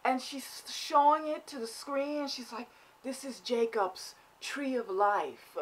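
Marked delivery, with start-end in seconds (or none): 3.0-5.6 solemn mock mother. Mother presenting the placenta.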